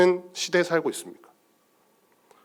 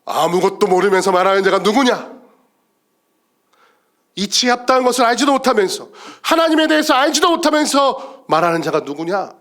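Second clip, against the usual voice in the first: rebuking God; 3 semitones higher, 4 dB louder than usual. Acted. God reproving Job's friends, stern rebuke. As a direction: thunder a rhetorical rebuke from the pulpit. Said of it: "하나님은 그 욥의 새 친구들 보고 뭐라고".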